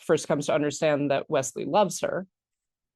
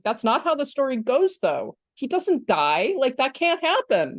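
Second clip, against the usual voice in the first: lightly voiced kid objecting; mildly indignant, disbelieving child; childlike protest; 6 semitones higher than usual. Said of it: "does recall those elements of childhood".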